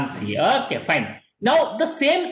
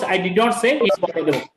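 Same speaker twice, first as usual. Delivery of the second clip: "say" made the strongest word; stress on SAY; 2 semitones lower than usual. Shown as a demonstration. Teacher explaining word stress, weight on "say". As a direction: land firmly on "say", then fall away. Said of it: "he's stressing the word say".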